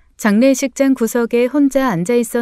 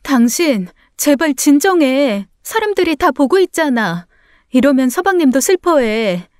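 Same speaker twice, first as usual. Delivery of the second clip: higher, distressed entreaty; embarrassed wife's raised-pitch plea; urgent pleading; 4 semitones higher than usual. Acted. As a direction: beg him to calm down. Wife begs husband to calm down.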